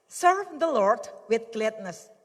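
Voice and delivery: slow, measured verse read in English; scripture reading. Acted. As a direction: read it out like a proclamation. Reads Bible verse slowly. (membaca ayat dengan lambat dan khidmat)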